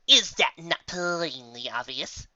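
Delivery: a trace of haughtiness, slow and lightly voiced; hint of a superior unicorn; haughty. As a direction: talk down just a little. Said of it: "in that tone which carried just the barest trace of haughtiness".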